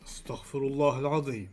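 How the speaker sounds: low dramatic trailer announcer; movie trailer voice. Pretend. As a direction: read it like an epic trailer. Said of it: "do your, um, uh, Astaghfirullah Al-Azim, but, like, the movie trailer voice".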